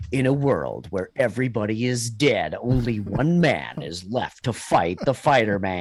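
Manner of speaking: lightly deepened trailer narrator; movie trailer voice. Retold or imitated. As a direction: announce it like an epic film trailer. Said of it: "the movie trailer guy".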